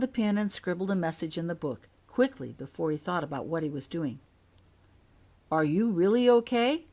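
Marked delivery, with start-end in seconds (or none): 5.5-6.9 high, loud urgent question; anxious hope. Acted. Father writing to his hurt daughter, high urgent hope. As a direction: ask it hoping hard.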